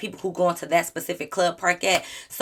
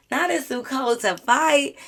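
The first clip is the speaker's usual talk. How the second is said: slow, higher mocking repeat of the quote; mocking disbelief; 5 semitones higher, slower than usual. Shown as a demonstration. Mocking Gator's excuse to her viewers, slow, in disbelief. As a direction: drag it out with ridicule. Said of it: "repeats the quote".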